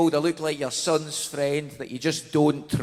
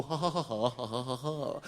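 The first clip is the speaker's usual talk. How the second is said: soft string of ha's; mock everyday ha-ha laugh; demonstrated laugh; 4 semitones lower, 10 dB quieter than usual. Shown as a demonstration. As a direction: imitate an ordinary laugh, trailing down quietly. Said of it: "when we laugh, we kinda go".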